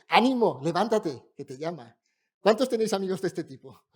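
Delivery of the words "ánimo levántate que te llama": loud, eager encouragement; encouraging. Retold or imitated. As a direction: cheer him on suddenly.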